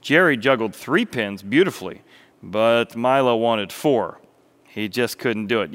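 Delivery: animated storyteller, projected and expressive; story narration. A narrator's reading. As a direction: tell it like a lively children's tale. Narrates a parable.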